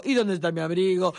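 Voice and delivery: mock whining child. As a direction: whimper about the lost coat. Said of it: "ya ha llorado tres veces".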